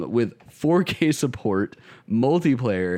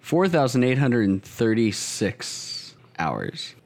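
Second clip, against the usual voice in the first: slow readout; much slower than usual. Real, not acted. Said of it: "I'm gonna figure out how many hours".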